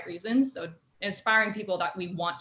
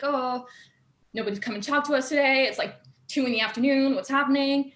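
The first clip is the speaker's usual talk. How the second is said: acting out puzzled impatience, higher; mock puzzled complaint; worried team grumble; 5 semitones higher, 4 dB louder than usual. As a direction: voice the team fretting in the pit. Voicing the waiting team's worry.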